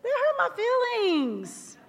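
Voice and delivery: slow, high, wounded plea; wife retells telling her husband he hurt her; retold hurt. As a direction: let the hurt show as you say it. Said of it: "and I say".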